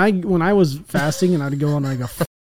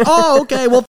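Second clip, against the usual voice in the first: preschooler voice; 8 semitones higher, 5 dB louder than usual. Retold or imitated. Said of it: "I make fun of the f-, trolls".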